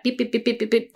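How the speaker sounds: lightly imitated beeping; imitated mental chatter. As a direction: mimic nagging inner noise with repeated beeps. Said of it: "that constantly goes on in your head".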